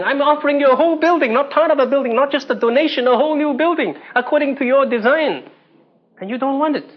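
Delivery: indignant insistence. Retold or imitated. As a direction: push it like she cannot believe him.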